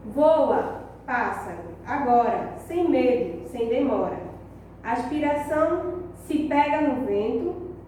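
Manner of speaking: poem reading. Shown as a demonstration. Reads the poem aloud. (professora lendo o poema devagar para a turma)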